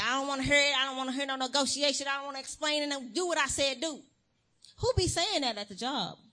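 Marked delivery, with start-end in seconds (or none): 0.0-4.0 higher, louder, curt parental orders; mock parent shutting down a child; imitating a strict parent. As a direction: lay down the law like a fed-up parent. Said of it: "It's like".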